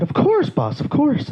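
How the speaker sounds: high, swooping, obliging reply; imitated eager agreement. Comic as star agreeing to a fan's photo, eager.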